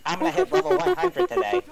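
very high, loud nerd accent. Shown as a demonstration. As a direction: squeal it as a Warcraft nerd accent. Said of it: "World of Warcraft nerd accent going".

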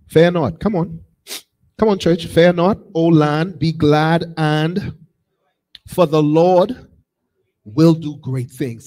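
loud, measured scripture declaration; scripture reading. Real, not acted. Preacher reading the promise to the church, bold declaration. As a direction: read the verse out boldly to the church. Reads verse aloud, forcefully.

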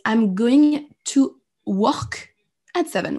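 slow, drawn-out English example. Shown as a demonstration. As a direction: stretch each word for learners. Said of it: "Si vous dites".

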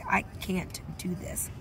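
whispered give-up. Retold or imitated. Quitter giving up, voiced.

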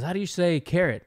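retold Jamaican accent; thick Jamaican-style accent. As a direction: lightly mimic a Jamaican man asking. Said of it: "Jamaican, some kind of accent".

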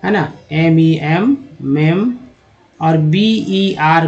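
slow, syllable by syllable: मेम, बर; slow breakdown. Shown as a demonstration. Teacher splitting remember for students, slow and deliberate. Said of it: "एक word ले लेते हैं रिमेंबर का".

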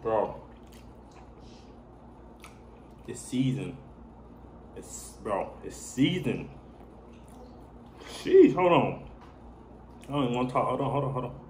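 savoring a bite between words; chewing while talking. Real, not acted. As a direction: mouth partly full of food. Seen 0: Bite taken at -7; jaw and lips still working while talking.

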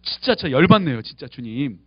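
a mild demo of venting anger at God; honest angry prayer. Shown as a demonstration. Pastor showing the congregation an honest angry prayer, lightly heated. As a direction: complain to God plainly, with a touch of heat. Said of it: "화가 난다고 정직하게 이야기할 수 있어야 돼요".

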